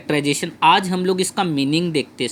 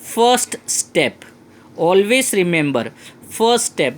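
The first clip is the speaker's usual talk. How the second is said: slow, punch first step; emphatic reminder; much slower than usual. Shown as a demonstration. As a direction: drive the point home to the class. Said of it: "हमेशा याद रखना".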